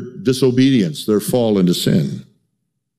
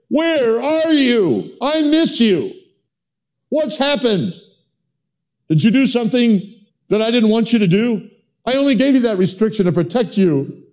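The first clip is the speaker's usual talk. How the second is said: God longing; 10 semitones higher than usual. Retold or imitated. God calling to people who wandered off, high tender plea. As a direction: plead gently as a heartbroken father. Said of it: "I wonder if the Lord would say that".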